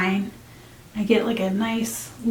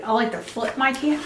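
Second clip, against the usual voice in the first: talking around a paintbrush; words muffled by a brush held in teeth; brush in mouth; 5 dB quieter than usual. Real, not acted. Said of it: "talking with a brush in my mouth".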